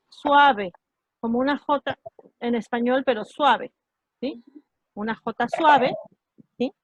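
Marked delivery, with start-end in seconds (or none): 0.1-0.7 suave said louder, stressed; stressed word. Shown as a demonstration. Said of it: "La H suena como si fuera una J". 4.9-5.9 Una J suave said slowly, stressing suave; slow and clear. Shown as a demonstration. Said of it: "como si fuera una J".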